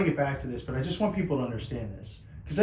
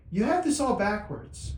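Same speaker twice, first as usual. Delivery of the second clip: slightly raised, slow divine voice; voice of God; 6 semitones higher than usual. Retold or imitated. God correcting the father, slow and lightly raised. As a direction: speak slowly as God. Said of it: "I wouldn't talk like this".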